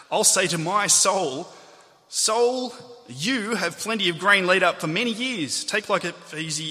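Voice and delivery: "my soul" punched high and loud; exaggerated emphasis. Shown as a demonstration. Preacher voicing the farmer talking to himself, heavy stress on "my soul". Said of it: "I'll read it with particular emphasis".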